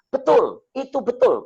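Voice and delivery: very high, loud, agitated agreement; distraught widow. Retold or imitated. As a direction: cry out "betul" like someone overwrought. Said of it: "kayak orang stres".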